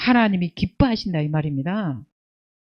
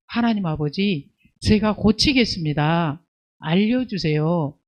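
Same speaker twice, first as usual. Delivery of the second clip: humble prayer; 5 semitones lower than usual. Retold or imitated. Preacher voicing a believer asking God, humble slow prayer. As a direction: pray it slowly and humbly, as a repentant believer. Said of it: "이렇게 겸손히 묻고".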